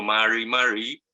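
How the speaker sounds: "Mari, Mari" with a soft, untrilled Mapuzungún r. Shown as a demonstration. Teacher demonstrates the greeting for students, soft r. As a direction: say "Mari, Mari" gently, r barely touched. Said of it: "es muy distinta al español".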